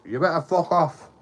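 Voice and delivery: retold threat. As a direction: act out his warning to clear off.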